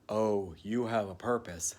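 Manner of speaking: soft, hushed whisper; awed whisper. Retold or imitated. Cherub in golden light whispering his purpose. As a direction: breathe it like a holy secret.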